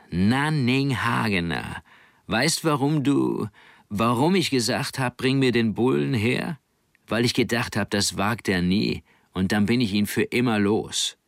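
etwas höher, langsam und spöttisch; skeptisches Mädchen Tessa. Acted. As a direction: ein Mädchen, das ihn herausfordert. Tessa stellt Nanning zur Rede. (Tessa stellt Nanning skeptisch zur Rede, leicht gespielt)

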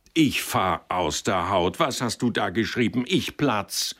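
boil over at him; furious boss. Acted. Lawyer raging at his clerk over the writing, furious.

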